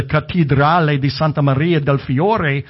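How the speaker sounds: a light Italian accent on the cathedral's name; mild Italian flourish on the Italian name; fake Italian accent. Shown as a demonstration. Preacher naming the Florence cathedral, a light fake Italian accent. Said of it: "in my best fake Italian accent".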